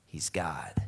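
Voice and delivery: low, whispered awe, acted; hushed realization. Disciples realizing who walks on water, hushed. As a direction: drop to a near whisper as it dawns.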